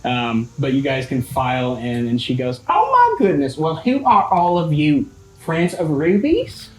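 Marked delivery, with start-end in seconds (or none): 2.7-6.7 high, bubbly motherly greeting; mother greeting her daughter's friends; cheery mom. Acted. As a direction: welcome the visitors with delight. GM voices the mother.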